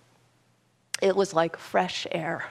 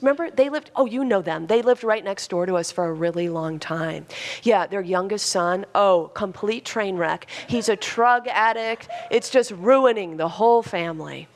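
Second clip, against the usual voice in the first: loud, fast gossip. Retold or imitated. Daughter gossiping to her mom at a cafe, loud and fast. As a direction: imitate a daughter rattling off juicy gossip. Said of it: "speaking really loudly and really fast".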